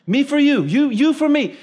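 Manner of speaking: put-on a small boy insisting, bright and eager; excited little kid. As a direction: kid pitching it high to make the grown-up understand. Kid repeats again, insisting.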